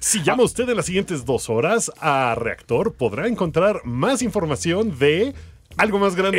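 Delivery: slow, eager TV pitchman; over eager infomercial. Pretend. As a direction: sell it like a late night ad. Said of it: "Que era como un infomercial".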